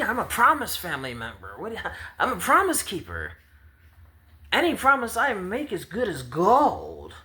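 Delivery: be outraged nobody believes you; indignant high outrage. Acted. Promised child offended, not trusted.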